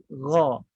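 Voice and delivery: GHA full and dark, like 'gho'. Shown as a demonstration. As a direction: lift the tongue root for gha. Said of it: "Ghin di atas". (gha tebal, pangkal lidah naik)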